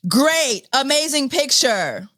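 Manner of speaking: high, mock-cheery sarcasm; sarcastic. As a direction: fake delighted reply. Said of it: "The sarcasm".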